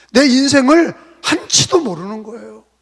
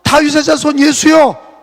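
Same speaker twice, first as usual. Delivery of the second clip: 1 crying out; 4 semitones higher, 6 dB louder than usual. Retold or imitated. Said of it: "또 떠드는 거예요".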